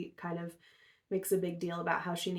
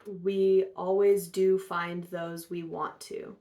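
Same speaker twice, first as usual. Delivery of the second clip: slowed, weighty and a little louder; mild ominous hint; 6 dB louder, slower than usual. Retold or imitated. The leader reassures Betty with a mild ominous undertone. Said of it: "he basically says".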